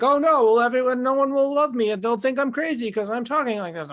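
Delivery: hammed-up fretting; mock panic. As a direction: rush it out like a worried mind. Acting out panicked inner voice.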